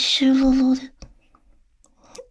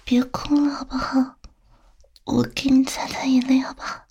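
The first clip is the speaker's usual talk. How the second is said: tender soothing. Acted. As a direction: gently coax someone out of crying. Comforting a crying loved one.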